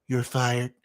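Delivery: mock boss firing.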